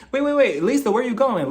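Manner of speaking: high, hurried calling after her; mock pleading Crystal. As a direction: chase her, begging her to stay. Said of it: "She's like".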